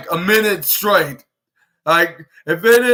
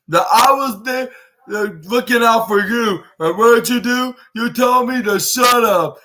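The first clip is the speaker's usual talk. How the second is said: higher-pitched imitated grievance; aggrieved complaint; 3 semitones higher than usual. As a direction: act out an indignant wrestler's reproach. Retold wrestler's aggrieved complaint.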